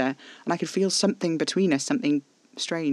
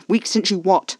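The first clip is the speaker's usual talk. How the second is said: louder, higher impatient snap; snapped; 5 semitones higher, 7 dB louder than usual. A narrator's reading. Narrator losing patience with Caspar, snapped demand. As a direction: cut in sharply, fed up with the fumbling. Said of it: "eventually I snapped".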